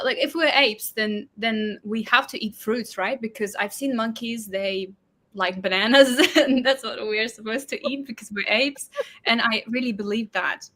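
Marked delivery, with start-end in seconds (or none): 0.2-8.9 put-on British accent. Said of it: "switching to British accent".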